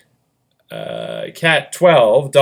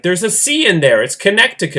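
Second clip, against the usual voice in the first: higher-pitched imitation of an insisting dad; lightly voiced dad; 5 semitones higher than usual. Dad correcting the family on Connecticut, lightly imitated. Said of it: "he's like".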